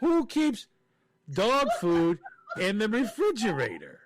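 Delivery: high, incredulous wail; exasperated, high-pitched disbelief; comic outrage. Real, not acted. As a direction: start high and demand an answer. Escalating outraged rhetorical question.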